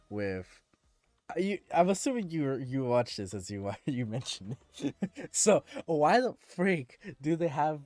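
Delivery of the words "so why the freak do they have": exasperated rant. Real, not acted. Ranting about romantic tension.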